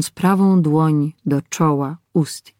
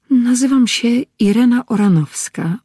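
higher, lightly voiced young woman, a touch confused; mild embarrassment in a raised pitch; slightly flustered; 7 semitones higher than usual. A narrator's reading. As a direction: answer a little flustered, pitched up. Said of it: "odparła nieco zmieszana".

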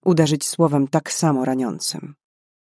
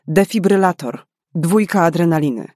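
urgent orders; 3 semitones higher, 3 dB louder than usual. Acted. Karolina to the paramedic, urgent called orders. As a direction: call for the kit without a pause.

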